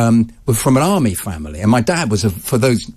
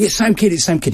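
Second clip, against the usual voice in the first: excited fans; 8 semitones higher than usual. Retold or imitated. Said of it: "surrounded by hundreds of people saying".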